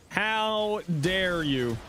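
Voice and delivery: slow, high, drawn-out offense; dramatic mock outrage. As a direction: stretch it out, hammed-up indignation.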